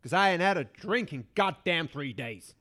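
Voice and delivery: grumpy cowboy farmer, low and gruff; drawling rural farmer, grumbling; old farmer voice. Acted. Plays old farmer figure.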